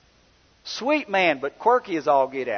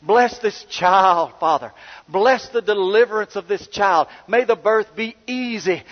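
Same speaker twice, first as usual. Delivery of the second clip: high, loud, slow fervent intercession; hammed-up old-time Pentecostal prayer, drawn out; Pentecostal prayer impression; 5 semitones higher, 6 dB louder than usual. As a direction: pray over her with a preacher's rising power. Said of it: "But he prayed".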